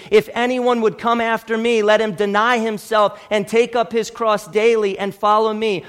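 urgent, driving appeal; emphatic plea. Acted. Preacher voicing Jesus' call to follow, emphatic plea. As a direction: plead it firmly, phrase pressing on phrase. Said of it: "say with emphatic plea".

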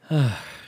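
short voiced huff; exasperated sigh. Real, not acted. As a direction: sigh at your own failure. Exasperated at failed bit.

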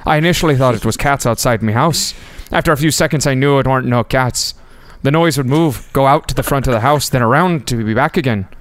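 put-on amateur Irish accent reading; lightly attempted Irish brogue. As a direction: read it out in a rough Irish accent. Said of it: "your Irish accent just tickles my funny bone".

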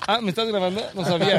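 badly hidden mock surprise; feigned surprise. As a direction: play innocent, as if caught unawares. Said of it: "te hiciste el sorprendido".

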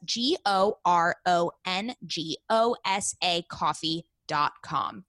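slow, careful spelled-out address; slow spelling. Acted. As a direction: spell it out slowly and clearly.

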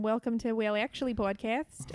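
podcast intro in a put-on Australian accent. Shown as a demonstration. Co-host showing Brad how it's done, Australian accent. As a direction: introduce the show as a mock Australian. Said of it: "do an Australian accent".

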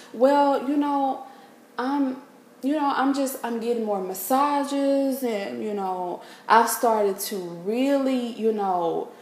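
mock airy, halting excuse. Mimics a vague self-help answer.

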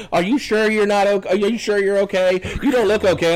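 needling deputy impression; mocking deputy. Mimics deputy challenging his patient refusal.

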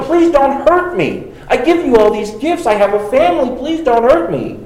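mock begging. Preacher picturing Jacob on his knees before Esau, mock pleading. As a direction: beg him not to hurt you, half-acted. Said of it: "picture him on his knees begging".

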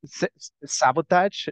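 sabotage said slowly with a Spanish accent, "sa-bo-tahzh", stuttered start; careful Spanish-accented sabotage; repeating on request. Shown as a demonstration. Asked by the host to repeat it, says sabotage slowly in her Spanish accent. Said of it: "Say that word again".

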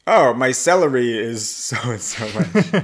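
hammed-up German accent; mock German accent. Coach showing learner how natives might hear Germans, mock German accent. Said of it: "isn't used to hearing Germans might hear".

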